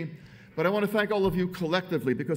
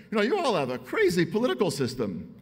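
mild, loosely imitated exclamation, higher pitched; Howard Dean; 5 semitones higher, 4 dB louder than usual. Speaker quoting a politician on the political system, mildly exclaiming. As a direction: retell his outburst without the accent. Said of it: "I can't imitate his accent, but he says".

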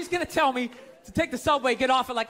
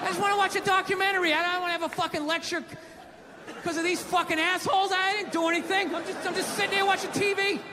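higher, faster indignant rant; exasperated higher-pitched complaining; mock rant; 5 semitones higher than usual. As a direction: whine that you did nothing. Ranting about the documentary lecture.

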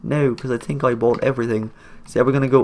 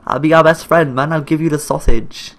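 friendly call; 4 dB louder than usual. Pretend. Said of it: "go there and be like".

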